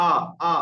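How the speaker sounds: repeated open "আ"; open-mouth alif. Shown as a demonstration. Teacher repeats alif for students, open "আ". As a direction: release "আ" from the hollow of the mouth. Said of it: "মুখের খালি অংশ থেকে".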